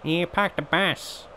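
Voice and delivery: slow, soft, put-on Australian accent; different Australian accent. Shown as a demonstration. Gamer trying a different Australian accent, put-on Australian. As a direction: draw it out in another kind of Australian. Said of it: "That's a different Australian accent".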